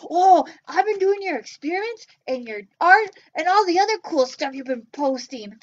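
a bouncy little puppet popping up. Pretend. Puppet Joe talks.

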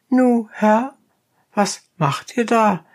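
high, rough peasant voice; donkey driver. A narrator's reading. Donkey driver challenging the dentist, high and blunt.

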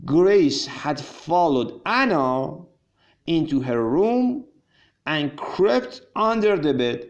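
very slow, deliberate story reading for learners; slow read-aloud. Acted. Teacher reads story to English learners, slow read-aloud. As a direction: read it out phrase by phrase, drawn out.

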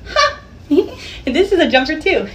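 giggling through the words; laughing at herself for buying another jumper. Real, not acted. Real giggly laughter.

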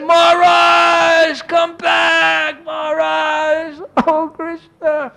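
grieving plea. Retold or imitated. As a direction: call him back in grief, slowly. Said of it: "I said".

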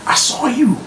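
high-pitched mock accusing voice; acted accusation. Accuser confronts the Penguin over his brothers, accusing.

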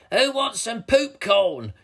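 high, loud, gleeful troll; giggling troll. A narrator's reading. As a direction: offer it slowly with naughty relish. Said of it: "giggled Toilet Troll".

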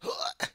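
quick acted gasp; shocked gasp. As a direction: suck in air in shock. Halfling discovers the body.

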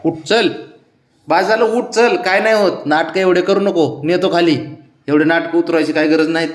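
firm scolding. Real, not acted. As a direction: stop the drama, get up now.

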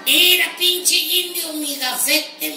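slow, lightly voiced arrogant visitor; slow mock boast. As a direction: drag it out smugly. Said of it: "me dijo".

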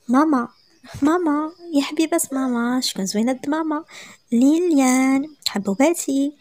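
put-on grandma's fond baby talk; cooing to babies. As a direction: coo over the little ones.

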